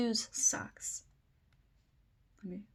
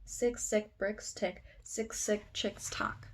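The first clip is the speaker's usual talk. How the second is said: quicker run through the tongue twister; fast attempt. Shown as a demonstration. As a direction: rattle the tongue twister off without gaps. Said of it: "try to say this part really fast".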